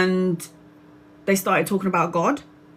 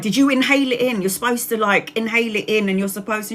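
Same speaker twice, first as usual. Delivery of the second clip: nagging daughter; 3 semitones higher than usual. Retold or imitated. Pressing mum about her inhaler.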